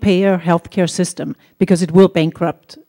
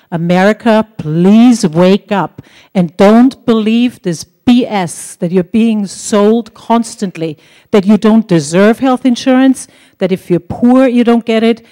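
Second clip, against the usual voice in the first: impassioned plea; 2 semitones higher, 4 dB louder than usual. Real, not acted. Passionate plea to the audience.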